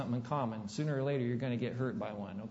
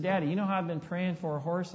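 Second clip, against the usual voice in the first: excited daughter; 3 semitones higher than usual. Retold or imitated. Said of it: "all excited".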